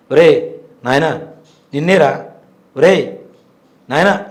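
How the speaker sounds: loud, separated summoning calls; అమ్మవారు calling out. Retold or imitated. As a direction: imitate a voice calling from within, word by word. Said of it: "నా పేరు స్పష్టంగా అమ్మవారి నోట్లో వచ్చి". (అమ్మవారు పిలుస్తున్నట్టు గట్టిగా, ఆగి ఆగి)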